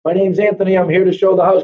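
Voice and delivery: announcing himself to possibly-home tenants, called out; retold calling out. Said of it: "and I call out".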